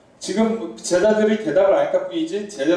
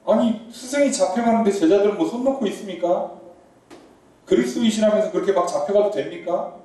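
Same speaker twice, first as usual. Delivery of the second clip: protesting scold. Retold or imitated. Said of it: "막 이제 따지는 거예요".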